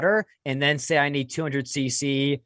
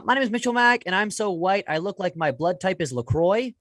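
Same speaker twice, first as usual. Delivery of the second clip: stand-up delivery; 5 semitones higher than usual. Shown as a demonstration. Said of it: "the joke goes like this".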